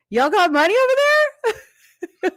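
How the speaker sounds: high, cute put-on voice for the slang line; cute slang try. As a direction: say it all cute and proud. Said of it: "And I'm like".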